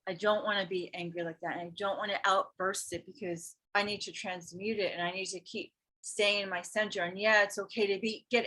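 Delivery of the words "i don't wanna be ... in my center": quiet resolve. Retold or imitated. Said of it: "I felt it and I was like".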